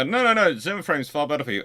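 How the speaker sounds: high, insistent, fast know-it-all voice; lightly hammed-up bossy nurse; mock hospital staff. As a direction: play a staff member brushing off the family. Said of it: "And they go".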